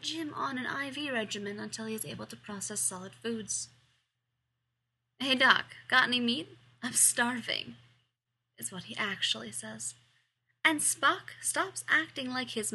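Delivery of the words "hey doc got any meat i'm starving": loud, eager call out. Acted. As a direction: call out hungry and cheeky. Hungry Jim calls out to doctor.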